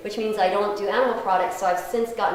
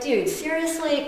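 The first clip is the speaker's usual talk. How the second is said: slow, higher, mock-exasperated; exasperated disbelief; 5 semitones higher, 3 dB quieter than usual. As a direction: say it with an imagined eye roll. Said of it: "wanted to roll my eyes".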